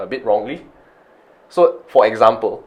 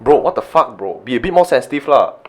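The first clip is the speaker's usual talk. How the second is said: scolding; 2 semitones higher than usual. Retold or imitated. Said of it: "I shouldn't go".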